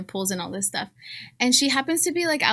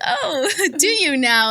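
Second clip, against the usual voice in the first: arch surprise; 5 semitones higher, 3 dB louder, slower than usual. Retold or imitated. Retold reply to nosy neighbor.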